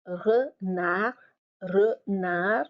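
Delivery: renard as re-nar, no final D; silent D. Shown as a demonstration. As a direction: say renard in two beats, leaving off the D. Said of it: "the D is silent".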